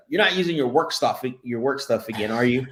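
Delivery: mock-suspicious wifely scolding, lifted at the start; teasing wife. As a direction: playfully accuse him like a fed-up wife. Wife teasing him in story.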